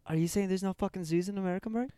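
mock Aussie bloke, Australian accent; hammed-up Australian accent, tossing in mate; light put-on Australian accent. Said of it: "this is how fucking people in Australia talk".

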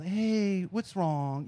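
softly imitated helpline concern; soft, considerate phone-agent tone; best customer service. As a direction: lightly put on a gentle customer-service voice. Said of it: "I get my best, like, customer service".

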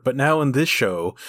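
usual speaking voice

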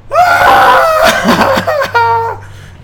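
shrieking, very high loud laugh; screaming laugh. Real, not acted. Dad cracking up at his toddler, screaming laugh.

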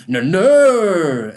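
high loud desperate shout; panicked cry. Acted. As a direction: scream it in terror. Indrid cries out as Grimace charges.

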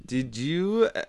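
put-on hesitant, slightly wobbly German accent; attempted German accent. Guest asked to speak German, shaky attempt at a German accent. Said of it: "can you speak some German".

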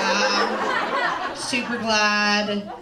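slow drawn-out mock glad; sarcastic. Comic telling partner she's glad, sarcastic. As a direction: say it glad but mean the opposite.

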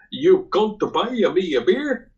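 high, slow mock Italian accent; drawn-out, sing-song Italian-accented question. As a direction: imitate an incredulous Italian. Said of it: "uh, Italian guy".

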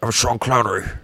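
lightly voiced bad Sean Connery impression; a hint of Connery's Scottish accent, badly done; half-hearted Scottish Connery accent; terrible Sean Connery. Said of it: "That is a terrible Sean Connery".

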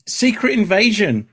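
slow, high, announcing the title; dramatic trailer voice. Acted. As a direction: boom it out like a movie trailer.

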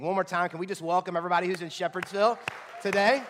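rally the room to cheer; rallying call. Real, not acted. Asking crowd to welcome campus.

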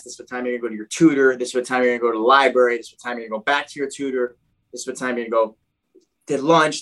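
fast, repetitive rundown; imitating staff listing a packed timetable; rattled-off schedule. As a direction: reel it off like a program orientation. Retold program staff reciting the schedule.

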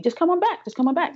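retold doctor's high-pitched coaxing; encouraging welcome back. Doctor to relapsed patient, encouraging. Quotes doctor's repeated reassurance.

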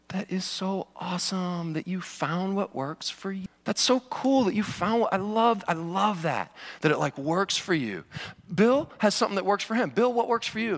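overly sweet, validating tone; a hint of a gushing friend; mock gushing affirmation. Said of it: "what they would say is".

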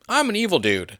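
high-pitched mock proclamation; mock villain declaration. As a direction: announce it like a cartoonishly self-declared baddie. Mock self-introduction of imagined born villain.

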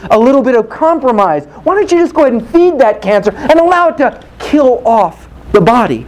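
emphatic, rhythmic pulpit rebuke; driving preacher's delivery; forceful preaching. Acted. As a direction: build the list into a pointed challenge.

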